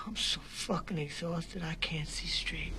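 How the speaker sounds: spent, slow whisper; exhausted whisper. Acted. Worn-out informant to the DA, slow exhausted whisper. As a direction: barely breathe the words out.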